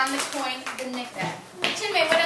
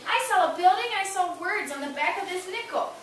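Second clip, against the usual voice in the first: modeling sharing with a friend; 3 semitones higher than usual. Shown as a demonstration. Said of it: "Did you see how I did that?".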